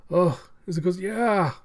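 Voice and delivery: squeaky gleeful villain; high villain voice. Retold or imitated.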